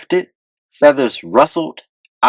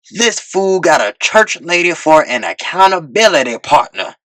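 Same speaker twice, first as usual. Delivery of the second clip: mocking disbelief; 5 semitones higher than usual. A narrator's reading. Velvet Moses mocking.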